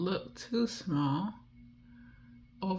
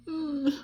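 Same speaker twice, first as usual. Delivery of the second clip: 1 cooing hum; 12 semitones higher than usual. Pretend. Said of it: "you just wanna go".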